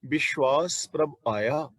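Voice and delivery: ਵਿਸ਼ਵਾਸ ਪ੍ਰਭ ਆਇਆ read slowly as one phrase; slow scripture reading of ਵਿਸ਼ਵਾਸ ਪ੍ਰਭ ਆਇਆ; measured recitation. Shown as a demonstration. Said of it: "ਇੱਥੇ ਵਿਸ਼ਰਾਮ ਲਾਵਾਂਗੇ".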